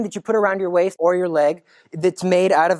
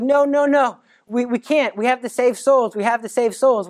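put-on insistent child; 3 semitones higher than usual. Jacinta refusing to eat.

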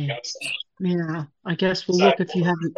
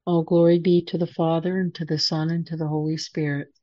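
steady reverent prayer voice; prayer recitation. Acted. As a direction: recite it like a rosary leader. Leads the Glory Be.

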